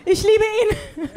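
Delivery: mock torn love, slowing down on the last line; exasperated mother torn between love and horror; conflicted mom. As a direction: sigh out love and exhaustion. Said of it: "die macht so".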